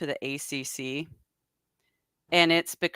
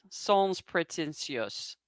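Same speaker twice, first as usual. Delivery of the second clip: "sans pretentious" said slowly and softly in a French accent; slow, soft French-accented "sans pretentious" with "sans" sounding French; English with a French accent; 8 dB quieter, slower than usual. Shown as a demonstration. Explaining blue collar to a French friend, in a French accent. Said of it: "only with a little different accent".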